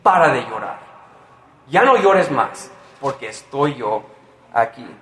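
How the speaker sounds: a hint of a triumphant Jesus, voice barely changed; Jesus speaking. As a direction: announce it like the hero who fixes everything. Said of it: "es porque Jesús está diciendo".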